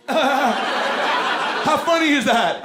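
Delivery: put-on very high, drawn-out kid voice; exaggerated high child's question; little nephew. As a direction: squeal it slowly like a child. Imitating nephew's demanding question.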